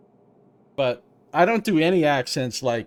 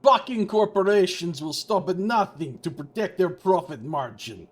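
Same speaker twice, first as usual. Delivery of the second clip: dramatic; 5 semitones higher than usual. Acted. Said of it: "he said dramatically".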